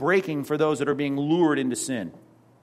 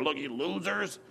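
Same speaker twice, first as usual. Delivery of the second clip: mock put-down; 8 dB quieter than usual. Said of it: "put a big F on your paper".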